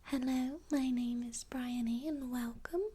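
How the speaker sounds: gentle soft-spoken greeting, lightly voiced; calm ASMR soft speaking; soft spoken intro. Shown as a demonstration. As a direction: welcome them softly with a little voice. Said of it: "You could say".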